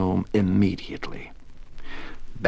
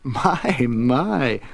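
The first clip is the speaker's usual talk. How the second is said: kindly, higher-pitched gentle surprise; 5 semitones higher than usual. A narrator's reading. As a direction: soothe a nervous little fellow. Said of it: "said the vagabond gently".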